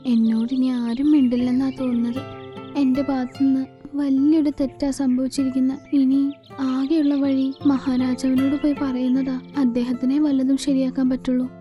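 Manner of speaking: subdued, level, regretful musing; dejected. Acted. Shunned bird admits the mistake to herself, dejected. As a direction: sad lament to oneself. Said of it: "അവൾ വിഷമിക്കാൻ തുടങ്ങി".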